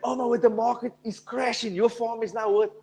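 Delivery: mock panic. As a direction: play the neighbor who is freaking out over a crash. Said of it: "your neighbor comes screaming".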